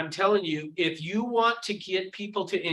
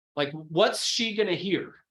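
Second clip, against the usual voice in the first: plain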